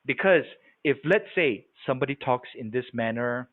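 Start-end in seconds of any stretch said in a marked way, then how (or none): 1.9-3.5 soft, lower, smooth talk; smooth the voice out and bring it down gently; quiet, even, silky delivery; nice smooth voice. Shown as a demonstration. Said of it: "they have a nice, smooth voice".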